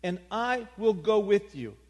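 high, loud, slow divine declaration; God reassuring Moses, booming. Acted. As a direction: proclaim it like the creator. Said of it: "He understood that name of God".

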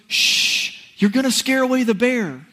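whispered shh, then a mildly scolding hush; shushing. Retold or imitated. Students shushing the honking driver, mock hush. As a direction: hush the pastor like he'll spook the bear. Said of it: "turns and goes".

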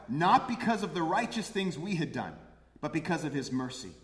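"Not" hit hard and loud, then eased down; stress on NOT. Shown as a demonstration. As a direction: proclaim the verse, driving the word "Not". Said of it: "Verse five".

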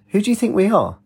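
high, incredulous retort; indignant. Acted. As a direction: toss it back in disbelief.

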